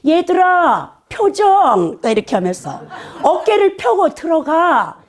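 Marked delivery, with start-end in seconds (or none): 0.1-2.0 high, drawn-out teacher's call; instructing ballet professor. Retold or imitated. Ballet professor ordering students during rehearsal, high commanding call. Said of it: "계속 지시하는 말 하는 거예요". 3.2-5.0 high, drawn-out teacher's call; instructing ballet professor. Retold or imitated. Ballet professor ordering students during rehearsal, high commanding call. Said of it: "계속 이렇게 하는 거예요".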